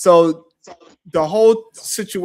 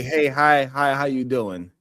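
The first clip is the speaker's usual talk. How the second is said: friendly greeting; slower than usual. Retold or imitated. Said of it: "and say".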